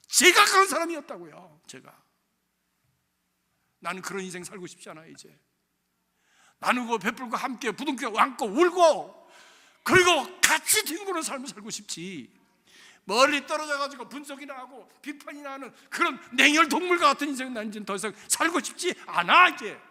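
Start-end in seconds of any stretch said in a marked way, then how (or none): 0.1-2.0 loud, higher, 제가 punched; shouted confession. Acted. Preacher loudly confessing to his flock that he was that man. 6.6-19.8 impassioned preaching. Acted. Preacher loudly vowing before the church to live a warmer life.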